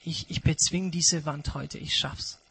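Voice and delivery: a climber talking himself on, hushed and low; quiet determined murmur; quiet self-talk. Acted.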